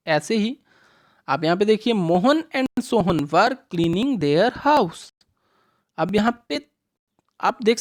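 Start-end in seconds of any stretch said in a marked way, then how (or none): 1.9-5.0 slow, careful reading of the example sentence; slow read-aloud. Shown as a demonstration. Teacher reading the sentence to children, slow and clear. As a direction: read it out word by word for the kids. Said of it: "reads the sentence slowly to class".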